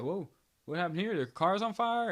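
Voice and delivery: hammed-up shock at the smoking car; mock surprise. Second cop joking, mock alarmed shout. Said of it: "he's like".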